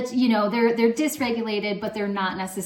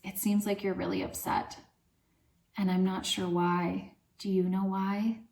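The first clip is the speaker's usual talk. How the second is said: gentle soothing. Shown as a demonstration. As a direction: invite the upset child to talk. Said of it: "if you don't really know what's going on".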